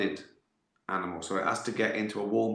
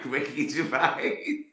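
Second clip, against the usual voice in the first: higher, drawn-out mock call; retold shout; 4 semitones higher, slower than usual. Man shouting at two kids on a bike, slow mock shout. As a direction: imitate calling out a name slowly, without real volume. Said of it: "just sees me shouting".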